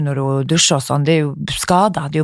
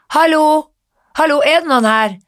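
higher, mock call of hallo into an empty mall; retold calling out; 9 semitones higher than usual. Friend locked in the mall, calling for help in a mock higher call. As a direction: call out as if lost in a locked building. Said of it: "Hun gikk og ropte sånn".

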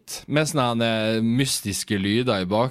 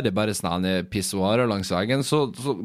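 usual speaking voice

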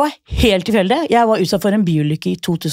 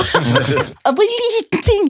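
sweetly coaxing; 14 semitones higher, slower than usual. Retold or imitated. Coaxing the Trondheim guy again.

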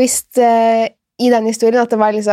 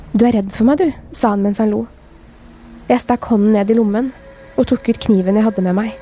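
measured read-aloud of a dark tale; first-person horror story narration. A narrator's reading. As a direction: read the scary story evenly, with pauses. Reads a scary story aloud.

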